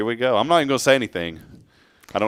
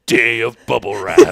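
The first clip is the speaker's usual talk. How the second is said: haunting voice; 7 dB louder than usual. Pretend. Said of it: "it sounds like a haunting movie".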